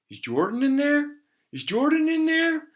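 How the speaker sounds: high, calling out for Jordan. Acted. Big guy calls out for Jordan, high and loud.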